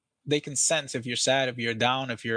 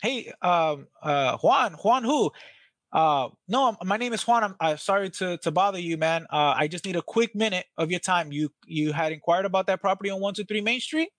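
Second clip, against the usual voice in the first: high, eager phone opener; bright eager cold-call greeting, pitched up; excited high voice; 4 semitones higher than usual. Shown as a demonstration. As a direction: salesman calling a seller, high and excited. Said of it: "like, high pitch, high voice".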